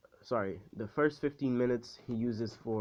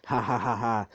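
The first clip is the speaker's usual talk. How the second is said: mock villain laugh. Voices a taunting rival's laugh.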